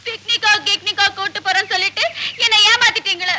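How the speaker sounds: whiny crying. Acted. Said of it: "ஏன் அழுவுற?".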